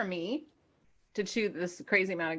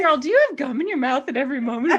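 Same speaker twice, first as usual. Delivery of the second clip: laughing; 5 semitones higher, 8 dB louder, faster than usual. Real, not acted. Teasing friend about gum.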